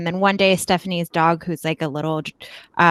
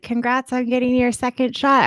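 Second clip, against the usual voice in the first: higher, chirpy congratulations; exclamation-point enthusiasm; 6 semitones higher than usual. Retold or imitated. Congratulating the neighbour by text, acted-out enthusiasm. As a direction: read it out as if it ends in exclamation points. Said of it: "I put exclamation points".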